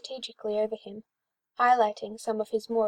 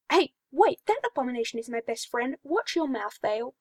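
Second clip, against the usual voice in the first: indignant; 2 semitones higher, 3 dB louder than usual. Acted. Hawk defending his friend.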